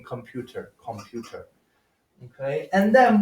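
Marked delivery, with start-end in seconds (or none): 0.0-1.5 "computer" as com-PYOO-ter, with the y-glide; English U sound. Shown as a demonstration. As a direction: say "computer" with "you" in the middle. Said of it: "adopted that U sound in".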